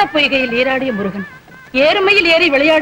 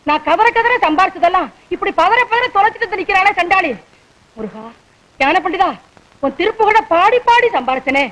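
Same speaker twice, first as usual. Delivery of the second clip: higher-pitched comic wailing complaint; melodramatic lament; 3 semitones higher than usual. Acted. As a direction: bemoan the loss to your god. Mother laments lost jewellery to Murugan.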